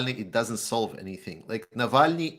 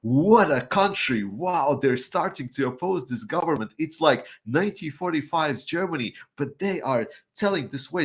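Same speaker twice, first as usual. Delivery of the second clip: mock Western awe; 5 semitones higher than usual. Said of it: "and they're like".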